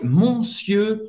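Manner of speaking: "monsieur" with a nasal "mon" as written; wrong spelling pronunciation. Shown as a demonstration. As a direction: say "monsieur" as mon-syeu, first syllable nasal. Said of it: "Não é monsieur".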